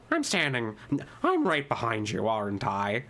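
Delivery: lightly voiced quirky cartoon character; Kinger impression. Shown as a demonstration. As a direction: slip into a halting character voice. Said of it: "my voice for Kinger is probably the closest".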